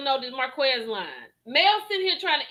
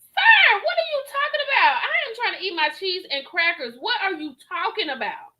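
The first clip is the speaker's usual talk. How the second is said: mock Mel. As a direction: voice Mel, first baffled then fake-sweet. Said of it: "And I'm like".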